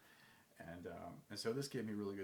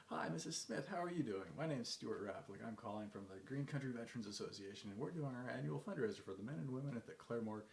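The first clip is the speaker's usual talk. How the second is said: chipper phone pitch; 2 semitones higher than usual. Acted. Cold caller greeting Mrs. Smith on the phone, chipper. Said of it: "developed the ability to pick up the phone".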